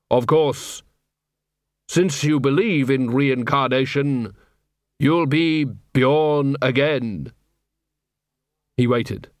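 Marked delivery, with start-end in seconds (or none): 0.1-4.3 slow, solemn Death voice; grim reaper voice. Acted. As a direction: speak as a calm grim reaper. Death answers Bjorn.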